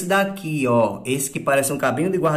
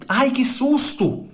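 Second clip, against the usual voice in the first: high, slow startled cry; mock fright; 9 semitones higher, slower than usual. Shown as a demonstration. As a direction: act out a little scare for the kids. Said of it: "quando eu digo que eu tomei um susto". (susto encenado, agudo e lento)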